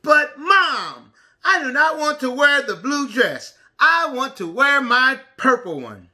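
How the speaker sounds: slow, lively storybook reading; reading to a toddler. A narrator's reading. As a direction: read it like story time for little ones. Reads picture book to preschoolers.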